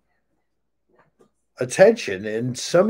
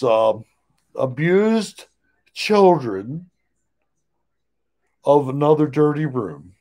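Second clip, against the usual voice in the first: masked singer speech. Pretend. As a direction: play the unmasked star. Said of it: "I'm the Masked Singer".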